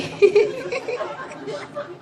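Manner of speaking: soft high laugh fading down; giggle, a bit embarrassed; real giggle, trailing off. Real, not acted. Laughing about the verse appearing.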